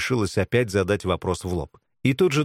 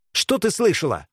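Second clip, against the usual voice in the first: sharp, higher demand; menacing; 8 semitones higher than usual. A narrator's reading. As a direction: demand an answer at once. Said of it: "с угрозой повторила Белка". (резко, с угрозой)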